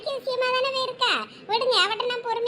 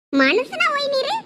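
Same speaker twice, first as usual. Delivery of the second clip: slow, high, contemptuous question; slow, high scorn; scornful challenge; 4 semitones higher, 3 dB louder, slower than usual. Acted. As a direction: spit out each word slowly in disgust. Wife scorns husband.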